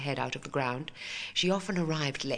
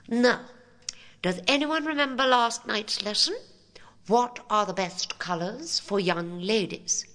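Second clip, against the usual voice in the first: hushed then higher prim teacher; prim schoolmarm; 7 semitones higher, 5 dB louder than usual. Acted. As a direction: quiz the class primly. Headmistress quizzes her class.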